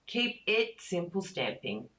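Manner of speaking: ordinary delivery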